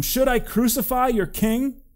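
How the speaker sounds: high, loud incredulous question; challenging question. A narrator's reading. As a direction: fling the question back at the crowd. Pilate challenges the shouting crowd.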